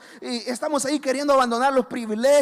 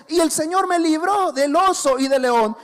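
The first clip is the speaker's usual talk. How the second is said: loud and higher, full of faith; bold declaration; 4 semitones higher, 5 dB louder than usual. Retold or imitated. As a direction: proclaim the rescue from the bear and the lion. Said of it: "Le dice".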